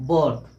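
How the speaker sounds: बर्थ with an "o"-like vowel; rounded ओ vowel in बर्थ; "o" sound demo. Shown as a demonstration. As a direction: say बर्थ close to "bawrth". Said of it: "आई का sound होगा ओ".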